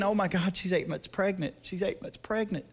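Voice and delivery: a hushed, anxious thought while driving; worried inner thought. Retold or imitated. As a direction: murmur the fear under your breath. Panicked thought driving to crash.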